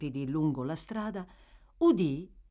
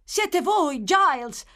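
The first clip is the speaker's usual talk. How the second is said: high, loud cry of recognition; boy's cry; 11 semitones higher, 8 dB louder, slower than usual. Acted. Boy recognising the servant in the carriage, crying out. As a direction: call out while running up. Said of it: "gridò il bambino".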